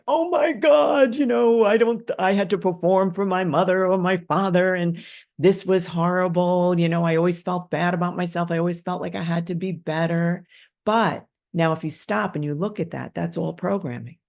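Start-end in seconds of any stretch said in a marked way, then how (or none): 0.1-10.4 high, loud whiny therapy voice; hammed-up distress about parents; mock crying therapy patient. Therapist's client mock-venting, high and whiny. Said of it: "the whole crying therapy thing where you're like".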